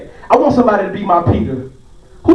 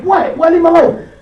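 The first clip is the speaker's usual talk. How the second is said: annoyed dad; 7 semitones higher than usual. Retold or imitated. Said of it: "I be like".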